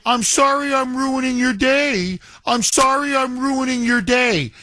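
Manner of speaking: a hint of smug taunting; mock taunting. Host imitating the wife taunting the agent, lightly mocking. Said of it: "She's taunting him".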